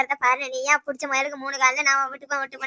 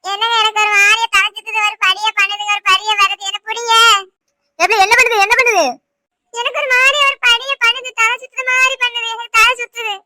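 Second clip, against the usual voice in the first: higher, put-on moaning as if her head is spinning; faking dizziness; 6 semitones higher, 4 dB louder than usual. Wife fakes a dizzy spell to end the fight, hammed-up moaning. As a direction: play the faint spell, clearly hammed-up. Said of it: "அவன் நடிக்காப்பா".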